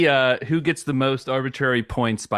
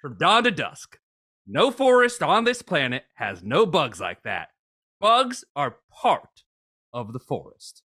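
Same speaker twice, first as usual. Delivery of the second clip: put-on old bushwhacker voice. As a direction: read it as a grizzled woodsman, baffled. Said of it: "use a different voice for each reviewer".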